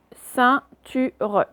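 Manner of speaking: "ceinture" very slow, in three syllables; slow "ceinture" with the final e sounded; reading out words. Shown as a demonstration. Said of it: "je vous lis d'abord les mots".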